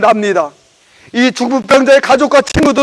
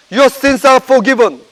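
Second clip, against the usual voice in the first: slow solemn quote; much slower than usual. Acted. Jesus's words quoted in English.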